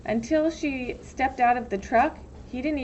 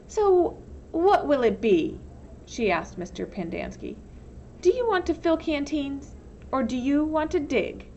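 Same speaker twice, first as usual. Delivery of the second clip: lightly voiced warden; 5 semitones higher than usual. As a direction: make him choose, coolly. Warden's ultimatum.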